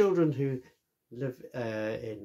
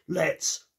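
Hippo's voice; 5 semitones higher, 4 dB louder than usual. Acted. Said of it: "said Hippo".

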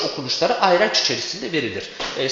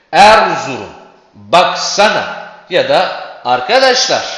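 loud, slow calls with the first syllable hit; calling out with first-syllable stress; 7 dB louder, slower than usual. Shown as a demonstration. Teacher calling out names to show vocative stress. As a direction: shout each name stressing its start. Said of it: "Vurgu kayacaktır çünkü seslenme".

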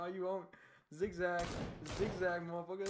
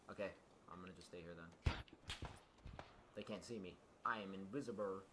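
hushed hiding voice; 13 semitones lower, 15 dB quieter, faster than usual. Real, not acted. Hiding, speaking low.

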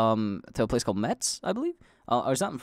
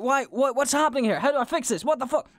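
mock confusion; 12 semitones higher than usual. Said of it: "but I was like".

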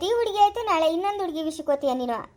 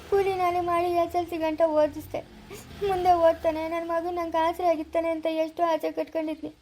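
crying father. Acted. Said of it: "ಅಪ್ಪ, ಅಳ್ಬೇಡ".

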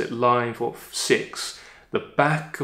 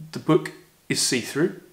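ordinary talk, nothing marked

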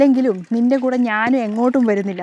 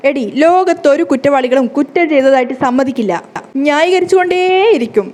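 loud accusing shout, rising higher at the end; angry retort; 3 semitones higher, 4 dB louder than usual. Acted. Husband shouting back at wife during staged fight, loud angry retort. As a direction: hurl the accusation back at her.

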